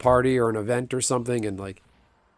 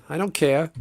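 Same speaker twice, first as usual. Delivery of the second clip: light imitation, a touch higher; Christopher Walken; 4 semitones higher than usual. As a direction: shrug it off like a deadpan tough guy. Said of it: "in the Christopher Walken voice".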